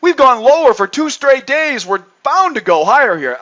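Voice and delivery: put-on raspy sly old gambler. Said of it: "That's what a gambler would say".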